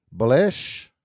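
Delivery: "Bullish" as a rising question, buh-LESH; misplaced emphasis. Real, not acted. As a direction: query the word Bullish, stressing its second syllable. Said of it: "emphasis on the wrong syllable".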